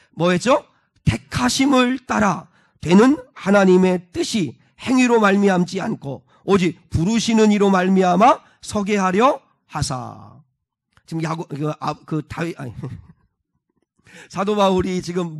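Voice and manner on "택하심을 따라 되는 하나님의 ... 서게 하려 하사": slow, loud verse recitation; measured, projected reading aloud; scripture reading. Real, not acted. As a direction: lead the congregation through the verse. Leads congregation in reading verse.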